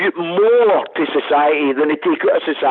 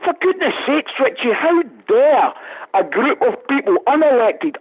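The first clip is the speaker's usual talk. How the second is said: much higher, exasperated disbelief; indignant outburst; 9 semitones higher than usual. Real, not acted. Radio guest to host, outraged that Brussels blocks national budgets, indignant. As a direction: throw it back in outrage, pitch jumping up.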